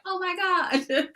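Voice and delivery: half laughing at her own overwhelm; mock overwhelmed through a laugh; laughing oh my God. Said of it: "Like, I'm just like".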